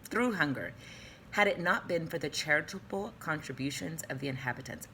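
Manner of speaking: reading with a mouthful; mouth full. Real, not acted. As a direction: talk around a mouthful of food. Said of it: "I got a mouthful going on".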